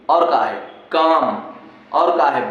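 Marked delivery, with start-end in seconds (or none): 0.9-1.4 काम, for "calm", with no L; silent L. Shown as a demonstration. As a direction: say काम as "kaam". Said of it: "एल का उच्चारण नहीं". (काम में ल की आवाज़ नहीं)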